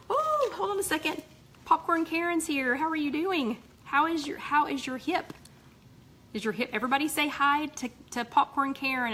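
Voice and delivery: thrilled to see her pop in; excited greeting. Real, not acted. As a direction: gush hello to a friend who just arrived. Excited greeting of arriving member.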